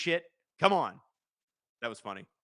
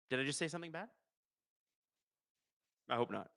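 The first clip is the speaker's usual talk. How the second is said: much softer, almost under his breath; quiet; 10 dB quieter, faster than usual. Real, not acted. Streamer worried he said something bad, asks again quietly. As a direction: repeat it to yourself, hushed and sheepish.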